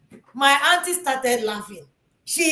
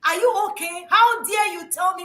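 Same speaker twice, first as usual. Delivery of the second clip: retold angry scolding; 3 semitones higher than usual. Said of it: "I'm like".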